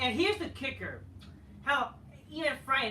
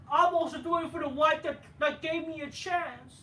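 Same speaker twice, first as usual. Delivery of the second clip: higher, louder whiny imitation; mock Cody; 6 semitones higher, 4 dB louder than usual. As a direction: parody his sappy line. Mocking Cody's promo.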